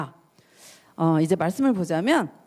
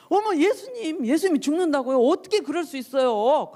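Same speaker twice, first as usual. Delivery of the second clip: high-pitched, aghast reproach; shocked protest, hammed up and high; mock indignant scolding; 6 semitones higher than usual. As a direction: act out a disciple scolding his teacher. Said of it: "꾸짖는 투로 예수님한테 그렇게 막 화를 내는".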